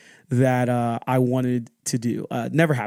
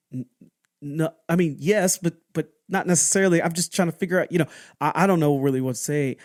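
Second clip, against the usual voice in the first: higher, halting, stammered retold reply; flustered backpedaling; 4 semitones higher, faster than usual. Child answering an accusing dad, flustered. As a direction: stumble over a hedged answer, pitch raised.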